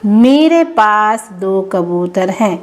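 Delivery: slow careful model sentence; slow correct model. Shown as a demonstration. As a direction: say it clearly for children. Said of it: "क्या बोलते हैं?".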